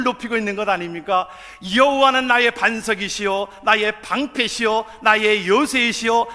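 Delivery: loud, measured psalm proclamation; full-force preaching. Real, not acted. Preacher reciting David's psalm to the congregation, loud proclamation. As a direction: declaim each title with ringing emphasis.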